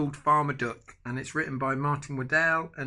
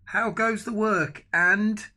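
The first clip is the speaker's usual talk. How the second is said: farmer calling; 7 semitones higher, 5 dB louder, slower than usual. A narrator's reading. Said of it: "and he called".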